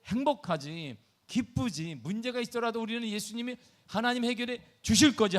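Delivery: ordinary talk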